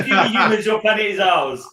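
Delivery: a hint of a gloating alien ruler; booming arrogant alien overlord.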